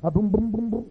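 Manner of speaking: rhythmic run of booms; imitated thumping booms. Pastor's phone beating the floor, imitated thumping. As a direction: sound out pounding feet, boom after boom. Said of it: "the pastor was going".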